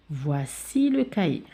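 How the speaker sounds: put-on slow, clear example sentences for children; slow model sentences. Shown as a demonstration. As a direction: spell it out gently for young pupils. (جمل نموذجية ببطء للأطفال)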